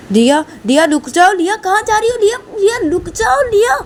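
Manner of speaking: high frantic calling. Acted. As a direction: shout to stop the running girl. Chasing daughter, calling out.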